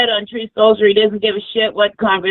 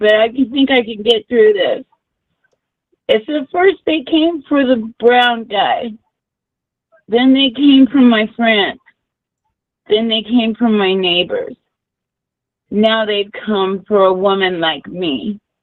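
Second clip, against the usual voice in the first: tearful, crying while talking. Calling in to a show, saying what has happened lately: crying while talking. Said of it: "I'm crying".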